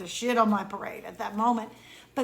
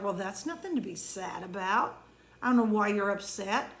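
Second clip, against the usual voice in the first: dismissive; 3 semitones lower, 4 dB quieter than usual. Retold or imitated. Someone dismissing my sadness.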